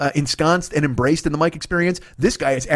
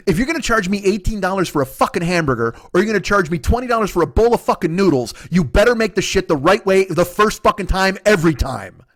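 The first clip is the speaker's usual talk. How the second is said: retold rant; 3 semitones higher than usual. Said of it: "I ranted for five minutes".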